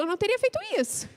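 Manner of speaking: voz aguda e rápida de birra; justificativa infantil. Retold or imitated. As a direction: imitando a esposa imatura, fina e apressada. (esposa imatura se justificando, voz aguda)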